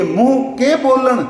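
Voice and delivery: ਬੋਲਣ said slowly with a retroflex ਣ at the end; slow teaching demo of ਬੋਲਣ with ਣ, not ਨ; careful pronunciation. Shown as a demonstration. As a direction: spell out ਮੂੰਹ ਕੇ ਬੋਲਣ deliberately, ending on the ਣ sound. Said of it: "ਨਾਣਾ ਹੀ ਬੋਲਣਾ".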